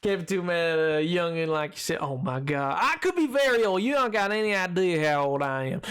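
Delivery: put-on southern accent. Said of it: "southern accent challenge".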